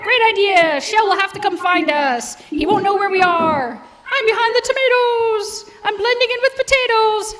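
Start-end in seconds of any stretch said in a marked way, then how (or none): 4.1-7.3 lightly voiced high eggs, playful; a touch of silly egg chatter; giddy hiding eggs.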